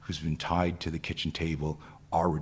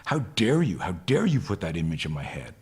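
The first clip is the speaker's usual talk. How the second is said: half-voiced scream of indignation that quickly drops; mild mock scream. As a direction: retell her outrage without really screaming. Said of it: "Another woman is screaming at me".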